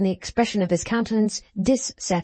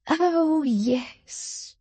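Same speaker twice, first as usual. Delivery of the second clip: gushing exclamation; 8 semitones higher than usual. A narrator's reading. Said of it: "exclaimed ... with a certain gushing wildness".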